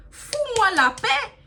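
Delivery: high, loud, dragged-out shout with a laugh; loud laughing yell of go away; exasperated yell. Retold or imitated. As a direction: scream it at him, fed up and half laughing. Yelling at harasser in retold quarrel.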